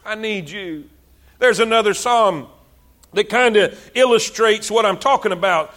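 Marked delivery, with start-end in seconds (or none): 0.0-0.9 much softer, lower repeat; hushed plea to God; quiet plea. Acted. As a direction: drop down low and soft.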